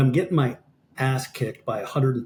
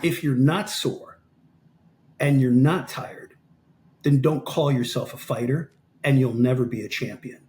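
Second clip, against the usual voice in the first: measured challenge. Retold or imitated. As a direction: lay down each condition, pausing between. Coach's retold hard lesson to fighter.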